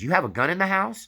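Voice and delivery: wife's startled cry at hearing of the gun; alarmed wife. Retold or imitated. Wife learns of the hidden shotgun, shocked high cry. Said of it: "His wife was standing there and she says".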